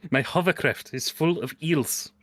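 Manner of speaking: slow deliberate repeat. Pretend. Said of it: "Your hovercraft?".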